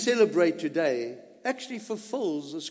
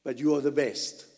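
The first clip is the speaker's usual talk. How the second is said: husband's praise; 2 semitones lower, 4 dB louder than usual. Retold or imitated. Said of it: "her husband says".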